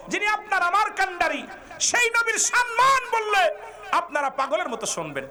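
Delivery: very high, sustained sermon cry; impassioned preaching. Real, not acted. Preacher urging listeners to hear the Prophet's honour, high and fervent. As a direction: hold the voice high through the whole exhortation.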